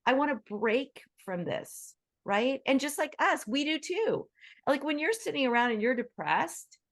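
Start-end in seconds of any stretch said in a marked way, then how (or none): 0.0-1.9 voicing the animal. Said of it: "They start to go".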